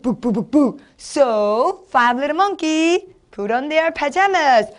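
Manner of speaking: slow, lilting picture-book reading; sing-song storybook voice, drawn out; storytelling demo. Shown as a demonstration. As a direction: read playfully for small children, stretching words. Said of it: "자, 예를 들어서".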